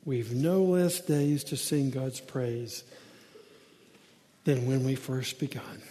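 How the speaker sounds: slow, low, measured recitation; hushed, reverent verse reading; hymn verse recital. Acted. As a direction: recite the hymn softly and unhurriedly.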